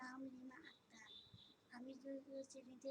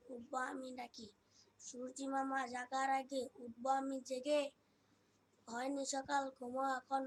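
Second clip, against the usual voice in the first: loud, declaimed verse in short measured phrases; projected school-stage recital; poem recitation; 8 dB louder than usual. Acted. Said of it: "পাঠ করব".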